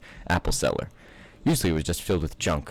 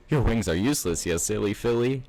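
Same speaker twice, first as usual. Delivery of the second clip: pleasantly; 4 semitones higher than usual. Acted. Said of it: "he said pleasantly".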